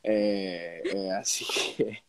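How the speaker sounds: stuffy sick voice, blocked nose. Real, not acted. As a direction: speak through a cold with a blocked nose. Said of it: "me voy a disculpar por mi tono".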